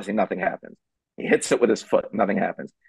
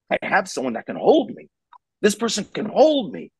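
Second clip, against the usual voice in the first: put-on higher, delighted kid voice; relieved child; 9 semitones higher than usual. A calmed child realises the parent can hold him, higher relieved kid voice. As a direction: sound like a kid who finally feels safe.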